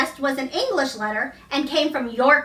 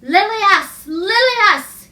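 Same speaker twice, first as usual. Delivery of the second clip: answering call; 6 semitones higher, 6 dB louder, much slower than usual. A narrator's reading. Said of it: "he answered".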